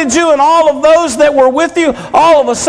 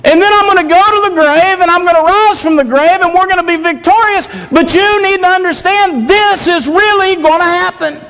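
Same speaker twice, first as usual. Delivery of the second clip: higher, pressing words to sleepy friends; urgent Jesus; 4 semitones higher than usual. Retold or imitated. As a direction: plead with them to understand, pitched higher. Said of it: "he's saying".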